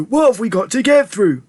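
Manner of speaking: high, bewildered shout; high-pitched baffled question. A narrator's reading. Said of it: "shouted Grandpa Joe".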